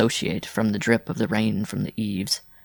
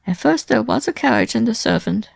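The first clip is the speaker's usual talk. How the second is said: high, louder plaintive woman's voice; tearful woman; 13 semitones higher, 5 dB louder than usual. A narrator's reading. Wife explaining her lost carriage to Simon, tearfully. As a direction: lament in a high feminine character voice. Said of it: "wiping the tears from her eyes".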